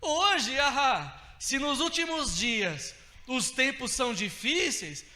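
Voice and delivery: loud, high and slow, every word driven; preaching shout. Real, not acted. Pastor to brothers, loud slow preaching shout. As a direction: build to a preacher's cry. Preaching climax about gratitude.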